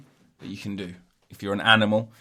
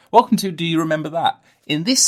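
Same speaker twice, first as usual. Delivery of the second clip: loud show-host welcome, higher; show host intro; 7 semitones higher, 7 dB louder than usual. Pretend. Podcaster doing his show-intro catchphrase, loud and hammy. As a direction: announce it like a TV host. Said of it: "I've got, um".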